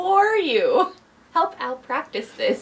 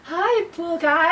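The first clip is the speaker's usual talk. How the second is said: starstruck fan; 4 semitones higher, slower than usual. Pretend. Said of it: "Okay, okay".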